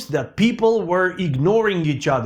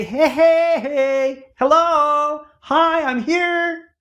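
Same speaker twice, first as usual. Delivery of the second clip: eager waving call; 9 semitones higher, slower than usual. Retold or imitated. Person waving at a passerby, desperate to be seen. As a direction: call out to get noticed on the street. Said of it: "You say".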